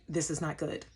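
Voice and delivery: quiet dread. Retold or imitated. Hearing captain's announcement.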